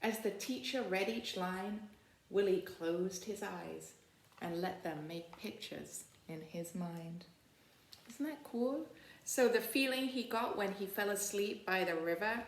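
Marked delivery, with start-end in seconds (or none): 0.0-7.3 put-on storybook read-aloud for kids; story narration. Librarian reading the picture book to children, storytelling voice. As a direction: read it warmly to a class of children.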